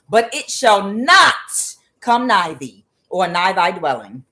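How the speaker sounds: declaiming Psalm ninety-one with force; reciting scripture. Acted. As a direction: proclaim the psalm like a preacher.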